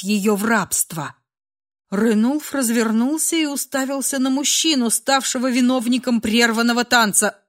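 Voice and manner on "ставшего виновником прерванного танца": plain reading voice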